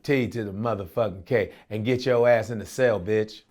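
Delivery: imitating T K. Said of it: "T K's like".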